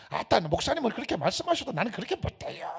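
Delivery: 사투리 섞인 교인 흉내; Jeolla congregant. Acted. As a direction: play a stubborn churchgoer from Jeolla. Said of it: "그럴 수 있어".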